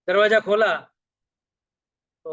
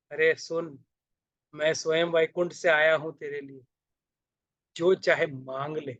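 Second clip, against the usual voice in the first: divine voice; 2 semitones lower than usual. Acted. भगवान चिता पर वरदान देते हैं.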